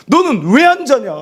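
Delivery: mock angry outburst, high and loud; imitated losing temper. Worn-out parent to baby who won't sleep, mock temper. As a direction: act out snapping at a sleepless baby. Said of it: "아이한테 막 성질을 내죠".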